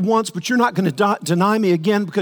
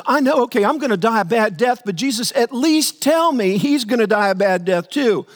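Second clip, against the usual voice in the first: whining Peter; 4 semitones higher than usual. Retold or imitated. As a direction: bargain like a sulking disciple. Preacher voicing Peter's complaint.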